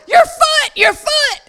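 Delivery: high, loud alarmed scream. Retold or imitated. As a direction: shriek it out in shock. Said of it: "she screams".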